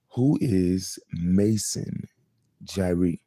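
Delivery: Mason drawn out slowly, leaned on as the key word; emphasis on Mason. Shown as a demonstration. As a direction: lean on Mason, slow the title right down. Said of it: "emphasis on the word Mason".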